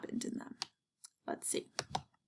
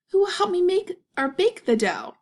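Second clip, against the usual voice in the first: high, louder hen voice; hen asking for help; 9 semitones higher, 5 dB louder than usual. Acted. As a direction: call out high for helpers like a hen. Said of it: "she asked".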